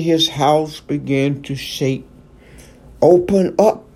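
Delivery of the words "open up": calling out. Acted. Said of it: "a familiar voice called to him".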